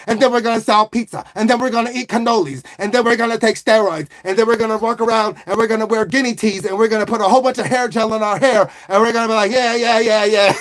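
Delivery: hammed-up Italian-American mobster; Italian accent. Mob boss scolding Nunzio and planning to take over town, Italian-American accent. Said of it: "Do an Italian accent".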